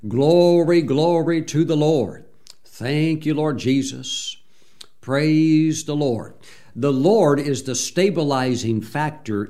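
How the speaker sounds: slow, drawn-out praise to the Lord; worship praise. Acted. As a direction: pour out praise, slow and lifted.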